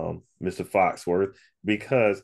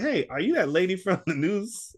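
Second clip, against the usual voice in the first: put-on old man's question; 12 semitones higher than usual. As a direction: ask it brightly in a high old man's voice. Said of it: "And I said".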